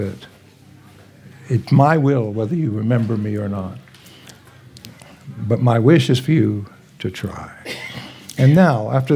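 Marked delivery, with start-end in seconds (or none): 1.5-7.5 gentle quote. Retold or imitated. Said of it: "that's how he said it".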